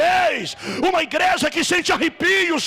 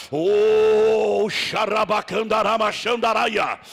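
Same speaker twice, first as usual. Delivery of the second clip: speaking in tongues; 4 semitones lower, slower than usual. Real, not acted. Prays in tongues at worship.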